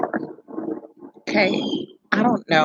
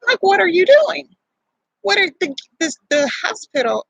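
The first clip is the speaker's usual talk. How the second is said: exasperated yell; 10 semitones higher than usual. Retold or imitated. Yelling at her husband pulling into the gas station. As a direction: yell what are you doing at him.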